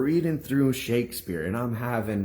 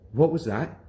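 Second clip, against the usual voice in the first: mildly raised, imitated angry demand; shocked anger; 4 semitones higher, 3 dB louder than usual. Teacher confronting the boy who just read, shocked and angry. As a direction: pitch up a little, taken aback. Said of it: "pissed, shocked, and angry".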